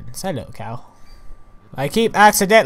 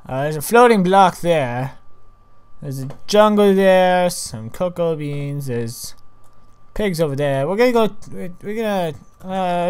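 lilting commentary, unlike their normal voice; odd put-on way of talking. Real, not acted. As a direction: slip into a singsong way of narrating. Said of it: "why do I keep talking like this?".

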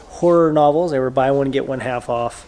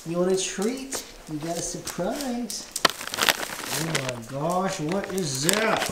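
talking to a dog; 5 semitones higher, 5 dB quieter than usual. Real, not acted. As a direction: coo at the dogs. Playing with the dogs.

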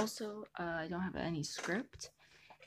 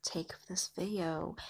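breathy whispered welcome. Real, not acted. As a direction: whisper the greeting to the viewers. Opening greeting whispered on camera.

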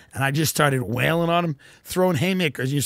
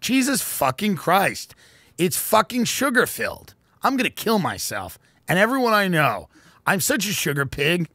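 mock self-loathing rant; 4 semitones higher than usual. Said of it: "sometimes I say to myself".

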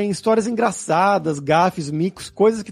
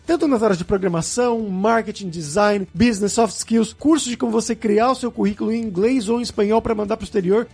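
upbeat host sign-off, lifted above chat pitch; polished presenter read with punched key words; podcast outro ad read; 4 semitones higher than usual. Acted. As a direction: sell the sponsor to listeners, then sign off. Host reads outro and sponsor ad.

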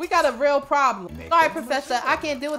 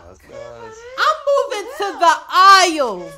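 mock wail; 8 semitones higher, 8 dB louder, much slower than usual. Storming off dramatically.

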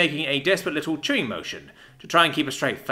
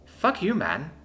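said with a smile; 4 semitones higher, slower than usual. Acted. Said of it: "said with a smile".

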